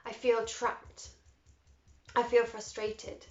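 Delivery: slow, deliberate spoken statements; measured tapping affirmations; slow affirmation demo. Shown as a demonstration. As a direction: model the words for them to repeat. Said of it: "I want you to say the following".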